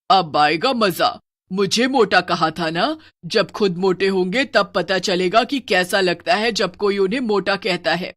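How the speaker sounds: a touch of villainous relish; mildly gloating witch. Acted. Witch gloats over those who mocked her, mild relish. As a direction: savour the revenge a little.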